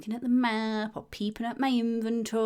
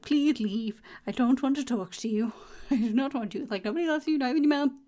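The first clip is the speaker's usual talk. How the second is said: higher, louder, laughing brush-off; mock dismissive; 5 semitones higher, 4 dB louder than usual. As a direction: shoo the enemy off with mock sass. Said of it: "I'm like".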